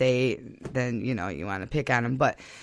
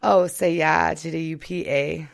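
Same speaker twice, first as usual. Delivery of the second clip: imitation Upper Michigan accent; Yooper accent. Shown as a demonstration. Asked to talk like a Yooper, imitation Yooper accent. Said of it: "Do you know how to talk like a Youper?".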